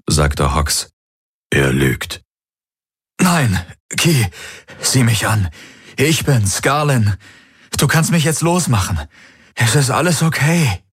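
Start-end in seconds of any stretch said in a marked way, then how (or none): 1.5-2.2 low grim warning. A narrator's reading. Hox warns Kirai the man lies, low and grim. 3.2-10.8 higher, coaxing male voice; pleading man. A narrator's reading. The possessed man begs Kirai to free him, higher and coaxing.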